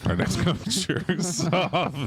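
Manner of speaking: high, slow hype announcer. Acted. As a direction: present it like a stage host. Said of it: "introduce every comic ... like that".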